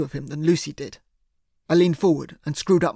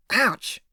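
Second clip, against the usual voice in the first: ouch cry; 6 semitones higher than usual. A narrator's reading. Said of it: "he cried".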